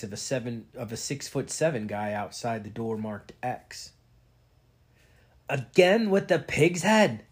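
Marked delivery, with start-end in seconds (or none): 5.5-7.2 faint Irish brogue. A narrator's reading. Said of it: "spoke in a faint Irish brogue".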